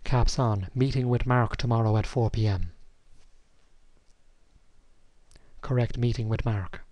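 deliberate dictation to the computer; slow dictation with punctuation. Shown as a demonstration. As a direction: dictate clearly, saying each command. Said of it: "the new appointment command".

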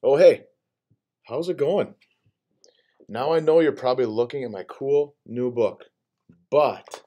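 lively, bouncy storybook voice; playful book character voice. Acted. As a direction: read it like a cheeky book character. Reads picture book aloud.

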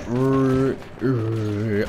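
rolling "rrr", imitating an engine sound; imitated vehicle noise. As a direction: mimic someone playing with the train's sound. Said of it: "figuring out how to make sound with it".

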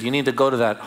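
put-on a touch of Kiwi accent on a mentor's firm advice; Joy Dawson's Kiwi accent. Mentor urging him to go, in a lightly mimicked New Zealand accent. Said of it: "in her little New Zealand Kiwi accent".

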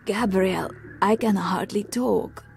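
a touch of lost voice after screaming; laryngitis. Acted. Voice worn out from screaming to impersonate a man, mild laryngitis. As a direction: sound like you can hardly talk. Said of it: "Now you're Herr Haber with laryngitis".

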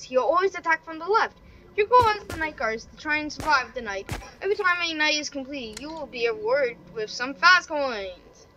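lively read-out with lifted phrase openings; singsong tutorial read; reading instructions aloud. Real, not acted. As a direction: read the game guide out to viewers. Reads game instructions aloud.

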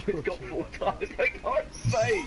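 laughing. Real, not acted. Car keeps spinning out.

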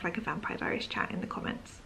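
soft conspiratorial whisper. Real, not acted. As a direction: whisper it to viewers. Hushed aside to viewers.

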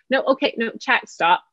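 high, sharp bossing about; teacher-parent barking rules and no; bossy no tone. Shown as a demonstration. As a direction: bark orders at the group. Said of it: "This is what our children are hearing".

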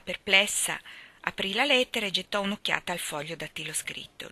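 ordinary delivery, nothing marked

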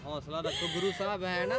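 soft, hushed comfort; quietly steady someone who is crying; gentle consoling. Real, not acted. Reporter consoling a crying evicted mother, softly reassuring.

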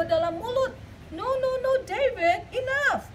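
mother telling her son to stop stuffing his mouth; firm mother. Acted. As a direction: stop him firmly, rising to a high no no no. Mother stops overstuffed eating.

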